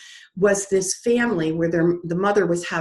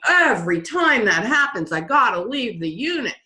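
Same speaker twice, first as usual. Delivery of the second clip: higher, swooping imitation of groaners; mock moaning; 3 semitones higher than usual. Waiting-room people grumbling at leaving the unit, mock moaning. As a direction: complain in an exaggerated sing-song groan. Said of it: "people are moaning and groaning".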